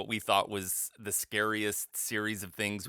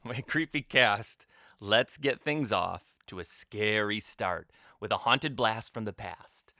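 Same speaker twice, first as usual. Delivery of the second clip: horror host; slower than usual. Acted. Host sets spooky scene.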